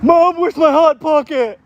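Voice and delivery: high whiny shout for mom, slowed; yelling across the room. Pretend. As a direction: call out to mom from the basement. Basement dweller calling his mom.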